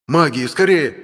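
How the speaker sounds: urgent command. Acted.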